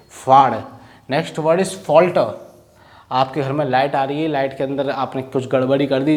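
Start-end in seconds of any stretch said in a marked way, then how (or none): 0.1-0.5 फाड़ punched out loud; loud final repetition of faad; emphatic repeat. Shown as a demonstration. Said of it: "फाड़ का मतलब समझ गए?". 1.1-2.3 drawn-out word call; teacher calling out the next word; slow announcement. Shown as a demonstration.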